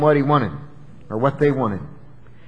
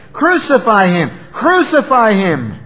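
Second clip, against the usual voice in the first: loud, insistent mock scream; imitated crowd screaming; 5 semitones higher, 5 dB louder than usual. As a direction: chant it like a mob demanding blood. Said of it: "go on screaming".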